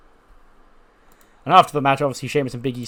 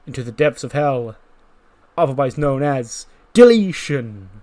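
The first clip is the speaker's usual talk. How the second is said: a hint of a pompous tour guide; Matt Hardy narration; 7 dB louder than usual. Matt Hardy narrating over the drone shot, mildly grand. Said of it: "he narrates over".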